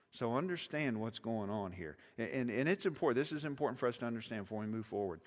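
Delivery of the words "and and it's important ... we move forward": ordinary talk, nothing marked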